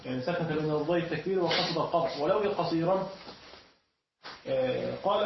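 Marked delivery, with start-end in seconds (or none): none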